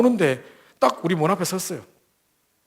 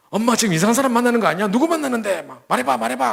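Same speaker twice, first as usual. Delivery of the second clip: higher, louder worried pressing; alarmed daughter; 8 semitones higher, 5 dB louder than usual. Retold or imitated. Daughter interrogating her mother: higher, louder alarm. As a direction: demand the truth from mom, anxious.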